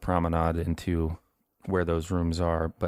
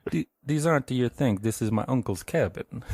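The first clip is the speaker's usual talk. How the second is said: lightly voiced scared boy, higher; a hint of a boy; 5 semitones higher than usual. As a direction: play the boy caught in the act, a bit higher. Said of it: "I can't do an Italian".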